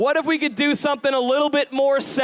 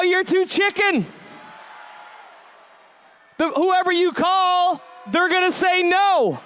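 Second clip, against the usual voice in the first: lightly voiced taunting inner fear, slow and higher; 4 semitones higher than usual. Speaker voicing fear to the audience, slow mocking taunt. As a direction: needle them like their own fear whispering doubts.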